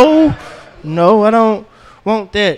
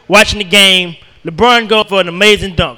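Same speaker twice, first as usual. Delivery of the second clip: ordinary talk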